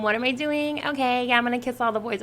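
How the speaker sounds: lightly imitating a valley girl. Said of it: "talking like a valley girl".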